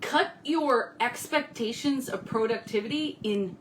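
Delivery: talking while chewing gum; words round a piece of gum. Real, not acted. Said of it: "I gotta get rid of this gum".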